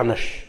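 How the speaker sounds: "نش" ending in a slushy sh instead of sf; gap-toothed pronunciation. Shown as a demonstration. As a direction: say "نش" as a gap-toothed slip for nusf. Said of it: "أنت تشوف لك واحد أثرم".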